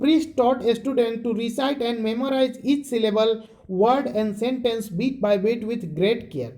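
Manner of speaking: very slow, deliberate reading, each word spaced; slow textbook reading. Shown as a demonstration. Teacher reading the textbook line to students, very slow. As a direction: read it out so students can follow every word.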